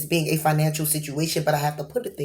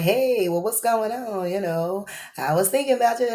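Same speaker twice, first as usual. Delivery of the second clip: timid caller; 3 semitones higher, 4 dB quieter than usual. Acted. Someone shy reaching out to an old flame, lightly timid. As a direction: ask it gently, a bit unsure. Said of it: "is kinda timid".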